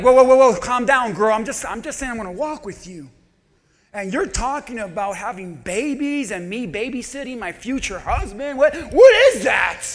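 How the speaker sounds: mock exasperated friend; calm her down, half laughing; Ruth and Orpah, sassy. Daughters-in-law telling Naomi to calm down, sassy. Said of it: "Ruth and Oprah were like".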